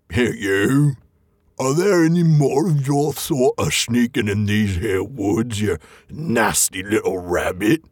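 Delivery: slow, sneering troll voice; a troll bullying a tiny captive; menacing troll. Acted. The troll shaking Bilbo by the toes, slow sneering troll voice. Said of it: "said he".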